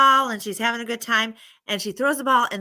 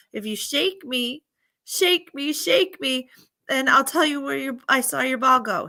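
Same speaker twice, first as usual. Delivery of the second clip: lightly pleading, higher-pitched tree voice; crying tree; 4 semitones higher than usual. Retold or imitated. Apple tree asks the girl to shake it, lightly pleading. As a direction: plead a little, voice lifted. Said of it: "that's crying".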